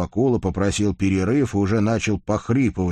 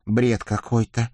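glum; 4 semitones higher, slower than usual. A narrator's reading. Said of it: "уныло признал".

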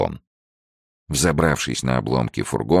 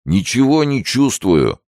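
higher, firm declaration; gendarme announcing; 12 semitones higher, 4 dB louder than usual. Acted. Gendarme reports after sniffing crate, announcing high. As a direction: announce the finding, voice up.

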